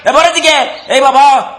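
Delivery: very high-pitched, exasperated rant; bad-tempered outburst. Brother telling his sister to let him sleep, furious and high-pitched. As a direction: lash out at being woken, pitch way up. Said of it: "خیلی بد اخلاق شدی".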